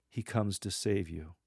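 tender, understated assurance; loving, understated. Shown as a demonstration. Lector with hand over heart, lovingly. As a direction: say it gently, from the heart. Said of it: "doing this in an understated way".

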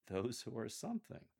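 "something" lifted in a questioning rise; amused bemusement. Shown as a demonstration. Coach reads the verse to lectors, amused and bemused. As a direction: read it bemused, tipping "something" upward. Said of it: "tone and facial expression of amusement and bemusement".

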